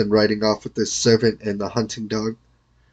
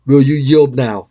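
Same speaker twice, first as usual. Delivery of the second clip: louder victorious demand; triumphant shout; 2 semitones higher, 6 dB louder than usual. A narrator's reading. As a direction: bark it over the beaten foe. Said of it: "shouted Sir Tor in triumph".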